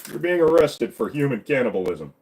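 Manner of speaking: cartoon policeman making an arrest; throaty cop impression; Joe. Officer arresting a friend for cannibalism, lightly acted. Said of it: "do a Joe impression".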